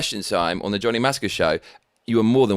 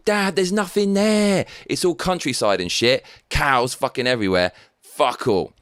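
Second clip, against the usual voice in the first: put-on whiny kid; 3 semitones higher than usual. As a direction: drag it out like a bored kid. Kid whining to dad.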